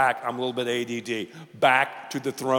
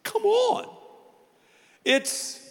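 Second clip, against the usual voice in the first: high-pitched mock heckler; squeaky put-on voice of an incredulous listener; scoffing audience member; slower than usual. Preacher voices a crowd member scorning his question, high mock-incredulous voice. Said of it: "some of you in a crowd this size are going".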